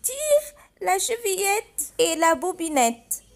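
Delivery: put-on granny calls out, glad her girl has come; joyful grandmother calling out; glad cry. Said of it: "s'écria la grand-mère".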